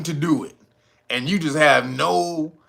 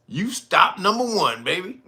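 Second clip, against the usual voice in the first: 1 teasing threat; 5 semitones higher than usual. Retold or imitated. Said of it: "They said that".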